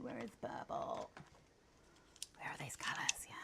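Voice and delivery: soft whispered search for colours; whispering to herself. Real, not acted. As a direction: whisper it under your breath.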